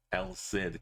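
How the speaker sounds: "El Cid" said as "el sid"; British-style El Cid. Shown as a demonstration. Explaining a British TV title, "El Cid" said as "el sid". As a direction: say "Cid" like the start of Sydney. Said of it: "from pronouncing it".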